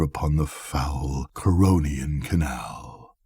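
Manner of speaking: a lightly voiced spectral shadow, unhurried and grave. The shadow answers the seven revellers, a hint of an otherworldly voice. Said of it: "the tones in the voice of the shadow were not the tones of any one being".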